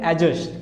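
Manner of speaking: एडजस्ट with silent D, "a-just"; एडजस्ट going straight from the vowel to J; correct pronunciation. Shown as a demonstration. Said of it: "इसका correct जो pronunciation".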